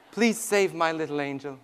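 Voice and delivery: low, softened plea; understated, pleading prayer; retold tearful prayer. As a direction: gently voice a praying mother. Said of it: "she prayed and she cried".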